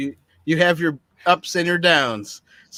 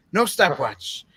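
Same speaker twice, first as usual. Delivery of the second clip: put-on German accent. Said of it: "I like how the German said".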